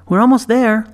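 put-on high, earnest girl's voice; bright young girl. A narrator's reading. Girl correcting the boy plainly. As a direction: insist like a matter-of-fact child.

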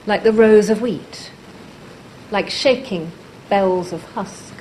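measured poem recital with long pauses between phrases; deliberate, spaced-out verse reading; poetry reading. Acted. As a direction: read it line by line, letting each image land. Reads her own poem aloud.

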